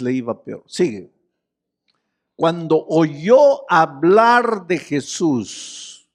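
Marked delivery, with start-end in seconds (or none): 2.4-6.1 very slow, weighing each word; slow reading. Shown as a demonstration. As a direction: read the verse out slowly, drawing it out. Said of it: "Hoy día no se puede decir".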